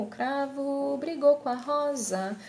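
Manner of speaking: "com a" said as "qua"; ellipsis. Shown as a demonstration. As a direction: go straight to the A in "com a", no M. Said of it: "já coloco direto o A". ("com a" como "quá", sem o M)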